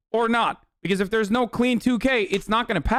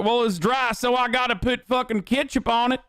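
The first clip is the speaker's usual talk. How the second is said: higher, goofy mocking voice of the senator; dumb senator voice; 5 semitones higher than usual. Streamer mocking the senator's ketchup brisket excuse, goofy higher voice. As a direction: play him as a clueless cook making excuses. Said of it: "And he's like".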